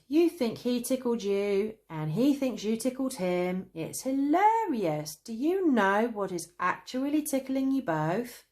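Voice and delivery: loud amused teasing; mock them through giggles; sniggering. A narrator's reading.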